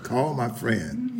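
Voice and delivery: lightly imitating a Spanish accent, slow. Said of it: "She had the great Spanish, fr-, Spanish accent".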